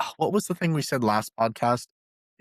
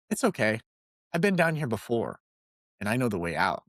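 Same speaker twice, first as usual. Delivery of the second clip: calm reassurance; 4 semitones lower than usual. Retold or imitated. Tom reassures his stuck friend, calm low comfort. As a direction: settle him down, you know the way.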